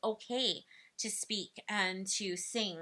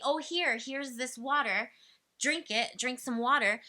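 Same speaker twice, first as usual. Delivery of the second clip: offering water. Shown as a demonstration. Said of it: "So instead of saying".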